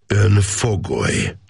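"Ön fogoly" slow, high, each word pressed hard; heavy stress. A narrator's reading. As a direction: lean on "Ön" and "fogoly" like a verdict. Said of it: "erőteljesen megnyomva a szavakat".

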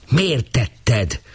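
understated bellow of a question; policeman's mild roar. A narrator's reading. Policeman roaring at the girl, lightly voiced. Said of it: "ordított rá a rendőr".

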